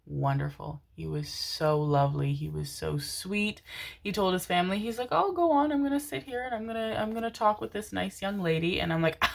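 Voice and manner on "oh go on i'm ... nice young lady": put-on old gentleman.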